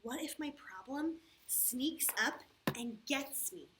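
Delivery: put-on a mild fretful little boy; worried child. The boy imagines the problem getting him, mildly fearful. Boy's fears in story.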